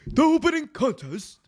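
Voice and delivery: big booming announcer call; ring announcer imitation. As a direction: boom it like an old ring announcer. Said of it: "like, that big, like, baritone".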